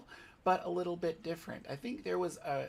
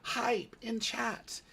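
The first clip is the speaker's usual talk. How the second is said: hoarse sleep deprived hype; 5 semitones higher, slower than usual. Real, not acted. Streamer hyping the hype train.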